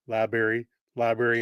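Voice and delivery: "library" as "labery"; "library" without the first r, like "laberry"; southern library. Retold or imitated. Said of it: "pick on me for saying library".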